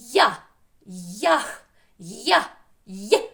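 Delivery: Я, ЯХ, Я, Є punched out separately; loud, short bursts on Я, ЯХ, Я, Є; isolated sound demo. Shown as a demonstration. Teacher repeats the first sound for pupils, Я punched out. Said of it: "Давайте ще раз промовимо його".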